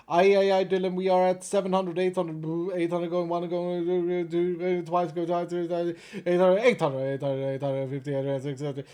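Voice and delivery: rapid-fire auction calling; auctioneer. Acted. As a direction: call bids like an auctioneer. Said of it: "I even tried my hardest with my auction voice".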